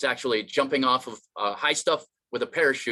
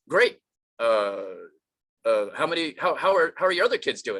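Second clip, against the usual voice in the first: wary agency worker. Acted. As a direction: stumble uneasily into the question. Agency staff reacting to Batman.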